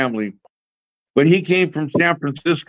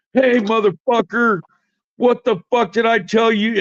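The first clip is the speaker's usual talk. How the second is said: retold yelling; 6 semitones higher than usual. Neighbor coming back to confront the shooters, retold yelling. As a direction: imitate an irate neighbor calling out. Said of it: "yelling at everyone".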